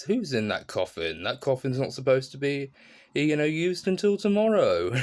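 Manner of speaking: lightly voiced tipsy undertaker; mild drunk voice. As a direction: drunk undertaker puzzled at the coffin. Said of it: "comes home drunk".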